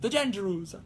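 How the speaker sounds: put-on heavier Italian accent on "the Jandrews", rolled "zhan-zher-oos". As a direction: lean harder into Italian for "the Jandrews". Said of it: "saying a French name in an Italian accent".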